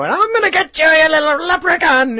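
high, loud imitation of a villain's yell; mock screaming. Mimicking cohost annoying the neighbors, high mock scream. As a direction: holler it like the neighborhood nuisance. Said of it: "Real loud".

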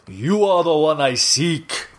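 slow, lightly voiced hunter; a hint of menacing hunter, drawn out; Kraven voice. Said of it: "Kraven the Hunter's like".

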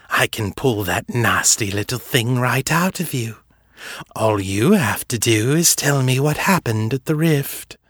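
lightly voiced coaxing villain; silky vampire. Fisher coaxing Seffi to talk about the rift. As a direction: coax her with mock kindness.

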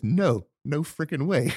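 loud, slow mock refusal; defiant. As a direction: bellow it out defiantly. Mock regulator's defiant reply.

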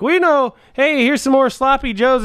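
high lunch lady voice; chirpy high lunch lady. Retold or imitated. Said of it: "the lady's like".

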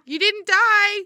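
retold shouting down. Onlookers to fallen skier down a cliff, mock shouting. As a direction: call down to someone far below, lightly. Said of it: "people are shouting down to me".

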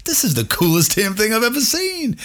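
high, thrilled wonder; thrilled awe. Retold or imitated. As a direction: gush like a kid seeing the field. Marveling at Fenway.

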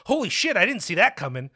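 high, loud, hammed-up gasp of shock; mock shocked surprise. Mocking people caught off guard by violence, in a hammed-up shocked voice. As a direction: play the stunned bystander, overdone. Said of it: "they're like".

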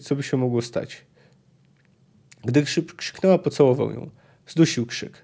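lively audiobook reading of a novel; story narration. A narrator's reading. Narrator reading a Witcher passage to listeners, lively story reading. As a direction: read the scene aloud like an audiobook.

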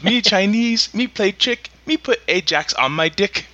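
hammed-up Asian accent punchline; mock Asian accent. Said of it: "that was Asian".

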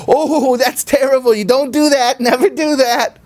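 high, laughing mock scolding; scolding while laughing. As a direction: tell the kid off but can't stop laughing. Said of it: "disciplining the child and they're laughing".

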